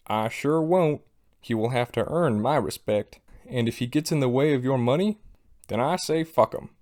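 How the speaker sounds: mock Southern accent, lightly done; southern drawl. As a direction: play Daniel with a hint of a drawl. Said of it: "southern drawl".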